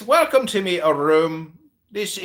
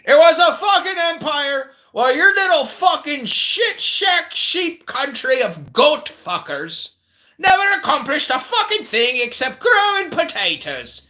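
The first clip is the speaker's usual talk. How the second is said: angry rant; 8 semitones higher than usual. Acted. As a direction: tear into them furiously. Ranting insults at Irish guest.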